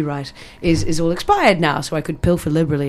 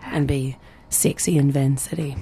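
sexy voice; 3 semitones lower, 5 dB quieter than usual. Shown as a demonstration. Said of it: "sexy New Zealand accent".

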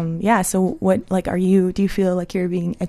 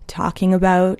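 whispering. Real, not acted. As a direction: drop to a whisper. Whispered aside about the plug.

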